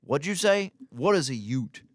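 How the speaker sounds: high, loud confused Southern judge; puzzled judge. Retold or imitated. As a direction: ask it like a baffled judge. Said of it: "the judge is like".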